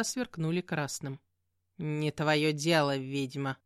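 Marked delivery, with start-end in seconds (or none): 1.8-3.6 rude demon cat. Acted. Demon cat answers rudely.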